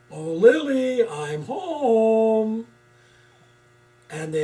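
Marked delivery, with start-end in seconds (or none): 0.1-2.7 high, loud goofy Herman-style greeting; Munsters dad voice. Retold or imitated. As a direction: call home like the Munsters monster dad. Quoting the Munsters sitcom.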